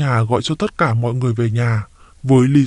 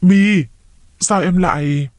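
higher, startled call of the name; stunned, the question left hanging; shocked; 6 semitones higher, slower than usual. A narrator's reading. Trà finds her sister handcuffed, shocked. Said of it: "Chị Trà há hốc mồm ra".

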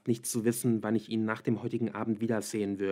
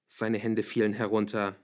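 usual speaking voice

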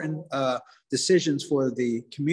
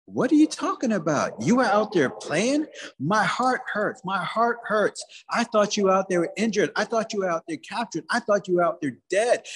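higher-pitched, mock-hurt motherly scolding; upset mother; 4 semitones higher than usual. Mother to son who was out playing, upset scolding. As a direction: scold him like a worried, wounded mom.

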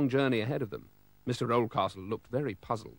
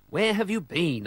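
Mister Bumblebee asking; 7 semitones higher, 5 dB louder than usual. Acted. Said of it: "asked Mister Bumblebee".

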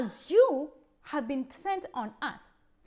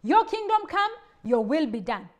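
proclaimed prayer; 2 semitones higher, 6 dB louder than usual. Shown as a demonstration. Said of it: "receiving the map and plan".

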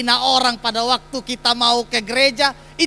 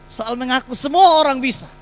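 louder and higher, rising to the punch; emphatic repeat; 3 semitones higher, 6 dB louder than usual. Shown as a demonstration. Pastor repeats the line to the congregation, emphatic and louder. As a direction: drive the point home on the repeat. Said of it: "Kalau soal mengaku, semua orang bisa".

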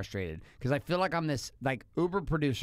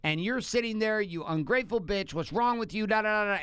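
mock yell, pitched up, at his wife; retold angry yell; 3 semitones higher than usual. Husband reliving yelling at wife in kitchen, mock angry yell. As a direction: replay the kitchen blow-up, hammed a little. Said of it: "yelling at her".

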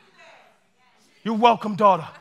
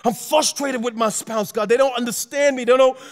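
acted anguished prayer. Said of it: "this is what he wants from you".

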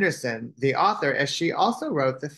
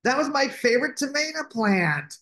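mock holler, pitched way up; hollered complaint; 12 semitones higher than usual. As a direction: holler it high, like an upset knight. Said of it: "the knight hollered".

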